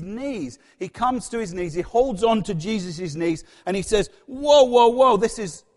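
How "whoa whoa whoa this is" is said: loud, startled whoa, whoa; overwhelmed exclamation. Acted. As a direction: cry out, stunned by it all. Peter overwhelmed at Jesus' knees.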